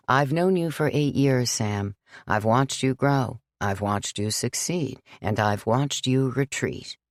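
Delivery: put-on gently firm old priest; lightly voiced priest. Father John refusing Sam, calm and firm.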